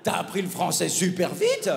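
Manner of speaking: hammed-up wonder at his French; mock amazement. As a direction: play the Parisian's dumb surprise. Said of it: "il m'a dit".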